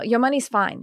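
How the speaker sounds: lightly imitated Australian accent; a hint of Australian in the voice. Imitating her psychic's reassurance, light Australian accent. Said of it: "She's got an Australian accent".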